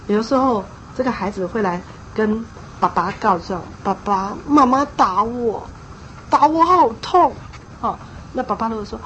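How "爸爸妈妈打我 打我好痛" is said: put-on whiny child. Child tattling to father.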